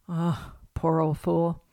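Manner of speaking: Pa grumbling slowly in a put-on Southern drawl; a slow, exasperated old Southern man; Southern accent. Pa gives up on Ma in a slow, mock Southern drawl. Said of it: "in their strongest Southern accent".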